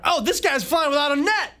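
high, hushed mock gasp of a stunned audience; shocked crowd voice. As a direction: play the whole crowd, suddenly amazed. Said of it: "I could feel the gasp from the crowd".

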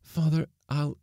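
high, halting appeal; choked. A narrator's reading. Daughter trying to confess to her father, choked. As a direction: struggle for words, breaking off. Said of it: "Theodora choked".

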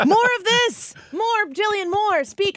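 gleeful rallying cry; excited urging. Real, not acted. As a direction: cheer her to keep going. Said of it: "urging Jillian on".

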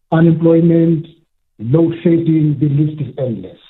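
muffled, headphones used as mic; talking into headphone mic, muffled; muffled phone line. Real, not acted. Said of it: "It's a bit muffled".

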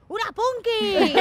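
high, loud, slow delighted shout; excited shout. Retold or imitated. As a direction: shout it out, thrilled to meet her. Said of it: "dice Inés".

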